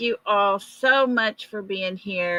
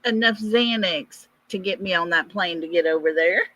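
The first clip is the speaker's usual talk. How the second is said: incredulous; faster than usual. Retold or imitated. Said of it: "And I was like".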